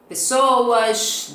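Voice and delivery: pessoas with a hissing sh sound, pesoash; Carioca hissed s. Shown as a demonstration. Teacher demonstrating the Carioca s: pessoas with a shushing s. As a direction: say pessoas the Rio way, s like sh. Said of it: "vai chiando tudo".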